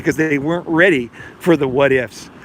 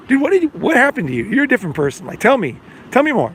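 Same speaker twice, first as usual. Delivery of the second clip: eager; 7 semitones higher than usual. Retold or imitated. Retelling his own eager questions.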